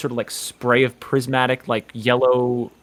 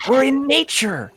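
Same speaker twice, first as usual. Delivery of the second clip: spooky Richie; 12 semitones higher than usual. Acted. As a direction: draw it out like a campfire ghost story. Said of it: "He says".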